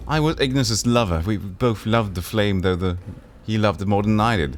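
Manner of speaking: lightly voiced lovelorn woman; Drusilla. Drusilla telling the player about her love. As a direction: confess her love with longing.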